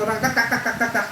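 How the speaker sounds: mock machine gun. Shown as a demonstration. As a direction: rattle off "tak, tak, tak" like gunfire. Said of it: "Ganun lang to".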